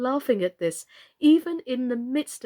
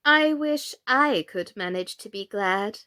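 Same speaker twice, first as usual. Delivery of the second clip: queen's voice. Acted.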